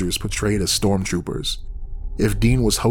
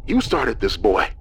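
menacing taunt; 7 semitones higher than usual. Acted. Dean taunting narrator on phone.

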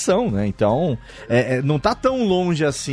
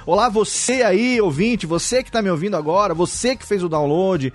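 radio host address. Shown as a demonstration. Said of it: "a linguagem radiofônica quando a gente fala em segunda pessoa".

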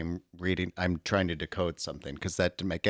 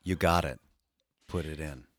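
dramatic reading. Pretend. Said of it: "brief dramatic reading".

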